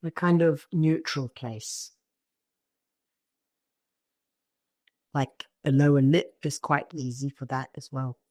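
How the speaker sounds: calm meditation guiding with long pauses; spacious, unhurried instructions, phrase by phrase; guided meditation. Real, not acted. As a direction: guide them gently into the body.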